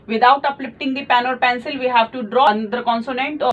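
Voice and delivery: each English word spaced out very slowly; slow dictation. Shown as a demonstration. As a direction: dictate the rule slowly for note-taking. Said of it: "teacher gives a rule slowly". (धीमे-धीमे बोलकर लिखवाना)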